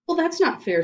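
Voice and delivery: put-on a little girl crying unfair; girl's indignant protest. A narrator's reading.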